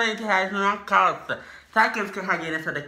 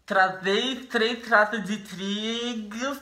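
mouth propped open; slower than usual. Real, not acted. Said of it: "vou tentar falar com o abridor de boca".

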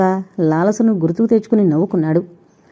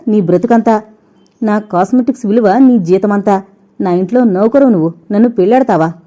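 spiteful anger. Acted. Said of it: "కసిగా చూసింది లాలస".

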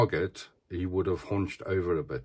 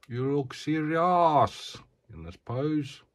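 advert catchphrase; 5 semitones higher, slower than usual. Retold or imitated. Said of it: "that's a South African advert".

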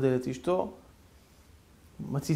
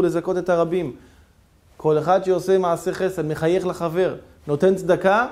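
loud, fervent sermon delivery; preaching; 4 dB louder than usual. Acted. Preacher urging the congregation to do good deeds, fervently. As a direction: preach the moral with fervour.

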